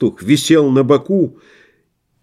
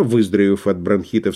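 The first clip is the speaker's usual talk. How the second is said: usual speaking voice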